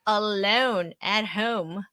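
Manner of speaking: slow, drawn-out complaint; mock grievance. Real, not acted. Wife complaining about being left with the children, mock-aggrieved. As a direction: play up being abandoned, stretching it out.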